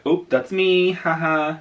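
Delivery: high, loud, giddy gotcha squeal; mock excited recognition. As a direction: play an animator spotting himself, thrilled. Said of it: "they're like".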